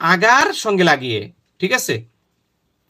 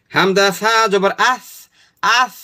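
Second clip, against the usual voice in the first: slow spelling out; slower than usual. Shown as a demonstration. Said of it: "এখন উচ্চারণটা করেন".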